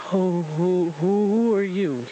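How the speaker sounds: mild frightened stammer; frightened stutter. Acted. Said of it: "he stuttered".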